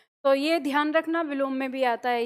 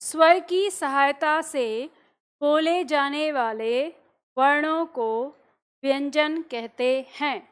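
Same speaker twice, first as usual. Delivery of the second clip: slow, phrase by phrase, so students can write; dictation; slower than usual. Shown as a demonstration. Teacher dictates the definition to students copying notes, slow. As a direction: dictate each phrase slowly with pauses. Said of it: "तो लिखो".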